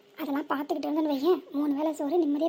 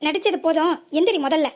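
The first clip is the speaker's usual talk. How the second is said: louder, sharp order to get up; angry scolding; 6 dB louder than usual. Acted. Man orders the woman he suspects of faking to get up, angrily. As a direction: snap at her to stop faking.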